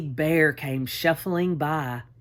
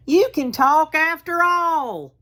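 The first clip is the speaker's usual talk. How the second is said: much higher, louder amazed cry; a bear stunned his teddy talks; 10 semitones higher, 4 dB louder than usual. A narrator's reading. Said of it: "he cried".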